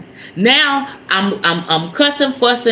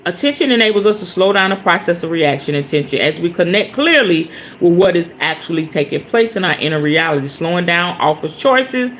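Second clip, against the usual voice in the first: reading aloud; 3 semitones lower than usual. Shown as a demonstration. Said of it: "I wanted to read that again".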